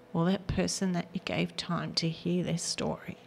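words catching as she fights tears; close to tears. Real, not acted. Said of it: "Now I'm gonna cry".

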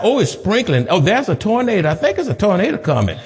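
a hint of a fretful member, fast at the end; mock fearful churchgoer. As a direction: lightly play the worried stay-at-home. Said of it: "folk can look outside".

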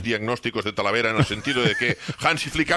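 lightly mock-solemn summing-up; sketch delivery. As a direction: deliver it as a tongue-in-cheek proclamation. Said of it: "Antes de que termines el sketch".

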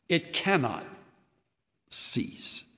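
soft, fading to a whisper on cease; hushed repeat for emphasis. Acted. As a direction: breathe the last word. Repeats phrase, whispering end.

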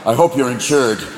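lightly voiced menacing deer; vengeful buck. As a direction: threaten like a buck out for revenge. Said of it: "five-point buck that jump out".

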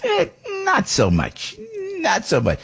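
high, slow, taunting gremlin croak. Retold or imitated. Gremlin mocking a man whose life is going great, in a high, slow croak. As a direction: sneer it like a mischievous gremlin. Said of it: "the gremlin comes in and goes".

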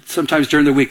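ordinary talk, nothing marked

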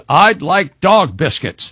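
put-on slow, deliberate delivery of a child's proud order; lightly acted confidence, each word drawn out; imitated confident four-year-old. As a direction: mildly mimic a small boy ordering with great certainty. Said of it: "all the enthusiasm of a very confident four-year-old".

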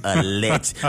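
Alleg- sounded out, broken off mid-word; sounding out words. Shown as a demonstration. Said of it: "I sounded it out too".

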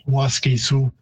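Waske Sioux drawn out slowly, ending on a clear sioux; slow pronunciation demo. Shown as a demonstration. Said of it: "merging to more of a Sioux, Sioux sound".

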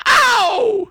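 high pained yelp, playful; high mock cry of pain. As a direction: yelp as if struck. Imagines woman's reaction.

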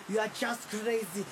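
breathy laugh, then a shouted jab; derisive, ending in a shout; taunting laugh. Acted. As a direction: sneer and laugh her down. Taunting her.

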